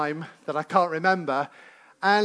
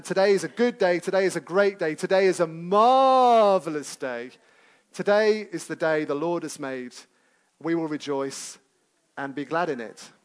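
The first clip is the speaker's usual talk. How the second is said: recited mantra. Shown as a demonstration. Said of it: "we all had to repeat it".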